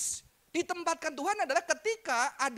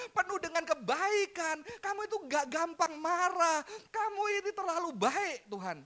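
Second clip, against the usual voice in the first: angry Jonah; 5 semitones higher than usual. Acted. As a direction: play Jonah ranting at a too-kind God. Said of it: "dia marah karena anugerah Tuhan".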